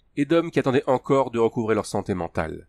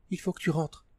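Tania; 7 semitones higher, 6 dB quieter than usual. A narrator's reading. Tania pulling away.

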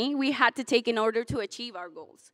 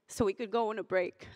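whispered aside; 2 semitones lower, 8 dB quieter than usual. Real, not acted. Speaker confesses slacking off in class.

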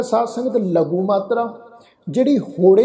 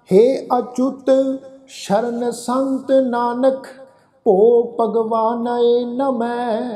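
slow, drawn-out chanted recitation of verse; slow scripture recitation; 2 semitones higher, much slower than usual. Acted. Teacher intoning scripture verse to the congregation, slow and chanted. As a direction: intone each line slowly and devoutly.

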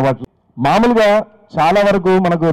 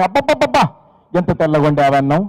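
mock gushing praise. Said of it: "ఎలా అభినందిస్తున్నాడు చూడండి".

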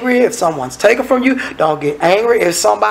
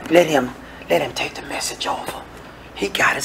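low, near-whispered aside; soft, low, discreet murmur; hushed intervention; 4 semitones lower, 10 dB quieter than usual. Acted. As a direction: quietly step in and take over. Quietly taking over from preacher.

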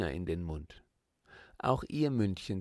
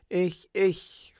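put-on children calling out, much higher and louder; excited child voices calling me, me; eager calling; 9 semitones higher, 8 dB louder than usual. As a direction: shout to be picked first. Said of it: "rief es hier und da".

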